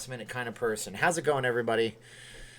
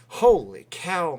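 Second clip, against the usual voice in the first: surprised; 4 semitones higher, 6 dB louder, much slower than usual. Real, not acted. Reacting to big news.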